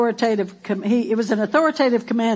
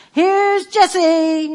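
drawn-out, raised announcer call; announcer introduction; 6 semitones higher, much slower than usual. Acted. Pastor pretends to introduce Jessie to the congregation, drawn-out announcer call. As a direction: stretch it out like introducing an act.

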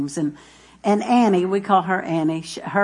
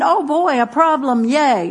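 mock cheer; 4 semitones higher than usual. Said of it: "you're not going".

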